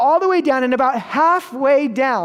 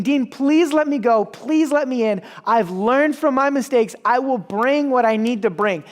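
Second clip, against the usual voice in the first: retold plea, slightly raised pitch; pleading; 2 semitones higher than usual. Student begging the dean to join the hike, mildly pleading. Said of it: "he pleads with the dean".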